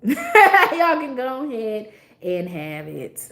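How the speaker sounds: slow, laughing it off. Real, not acted. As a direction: laugh while waving it off. Laughing dismissal.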